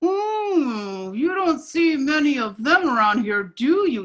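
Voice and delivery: a hint of the frog squeezing his lips tiny; small puckered mouth. Frog to the alligator, with a lightly puckered mouth. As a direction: talk through pursed, tiny lips, nervous. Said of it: "puckered his lips and made his mouth as small".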